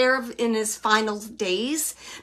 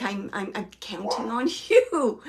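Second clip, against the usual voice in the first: laughing quote. Retold or imitated. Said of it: "He's saying it like that".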